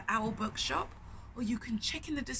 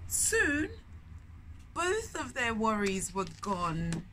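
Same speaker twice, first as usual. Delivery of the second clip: much higher and slower, beaming at the listeners; delighted; 6 semitones higher, slower than usual. A narrator's reading. Auntie reading to kids, bright and delighted. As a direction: wonder and delight for the children. Storyteller delighting at happy ending.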